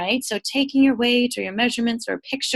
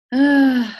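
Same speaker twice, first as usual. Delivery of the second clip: exasperated sigh; 3 semitones higher, 7 dB louder than usual. Real, not acted. Frustrated by computer trouble before training.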